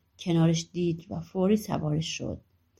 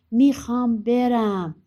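louder, higher, stretched-out demand; insistent demand; 5 semitones higher, 6 dB louder, slower than usual. Acted. Son wears his mother down, loudly insistent. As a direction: draw it out slowly, raised and stubborn.

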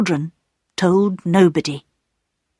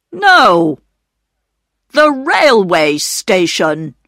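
surprised; 4 dB louder, slower than usual. A narrator's reading. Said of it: "surprised to hear more voices".

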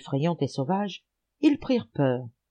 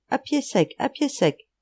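echoed call; 8 semitones higher than usual. A narrator's reading. Repeating the misheard call.

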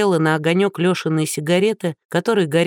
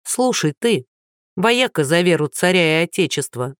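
haughty diva snapping, projected; a star putting him in his place; trained stage voice. Acted. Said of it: "хорошо поставленным голосом сказала Лиза".

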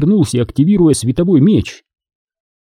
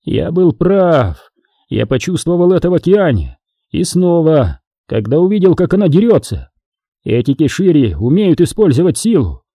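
he's right and delighted; rising eager triumph; excited realisation; 5 semitones higher than usual. Acted. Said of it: "глаза расширились от удивления".

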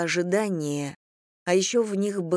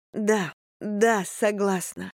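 tearful, relieved yes; happy crying; 3 semitones higher, much slower than usual. Acted. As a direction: answer through happy tears. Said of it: "сквозь слёзы радости и облегчения".

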